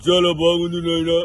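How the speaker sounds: lightly voiced rambling senior politician; a hint of a folksy old leader praising the guru; V. Hanumantha Rao voice. Mimic at the memorial lightly imitating a senior politician. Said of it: "VH Hanumantharao senior నేత వారి voice ని".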